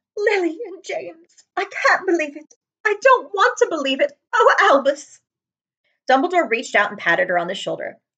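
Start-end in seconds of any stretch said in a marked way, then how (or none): 0.2-5.2 very high, slow, stricken, gasping lament. A narrator reads Professor McGonagall answering Dumbledore; gasping McGonagall voice. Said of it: "he was smiling at a rather severe-looking woman who was wearing square glasses exactly the shape of the markings that the cat had around its eyes. She, too, was wearing a cloak, an emerald one. Her bl".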